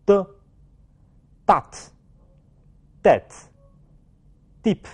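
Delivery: very slow drill with long pauses after "的"; read-after-me words. Shown as a demonstration. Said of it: "请大家跟我读".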